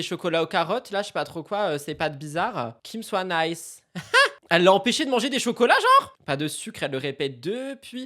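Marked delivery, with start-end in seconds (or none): 4.5-6.2 fast, high, laughing; laughing disbelief. Real, not acted. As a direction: laugh through the question.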